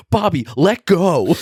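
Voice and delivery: high, loud mock yell with a laugh in it; hammed-up high panicked yell; imitating a yell. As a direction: squeal it out like he's being thrown. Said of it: "hear Ricochet yelling".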